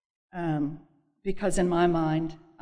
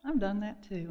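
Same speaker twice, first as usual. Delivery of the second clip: imitated sweet sponsor; 4 semitones higher than usual. Sponsor reassuring the woman who confessed, gently sweet. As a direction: open high and gentle, as a kind sponsor. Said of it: "my sweet sponsor said".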